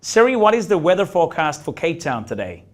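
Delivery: bad put-on American accent. Shown as a demonstration. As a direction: try a hammy American accent for Siri. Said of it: "using an American accent".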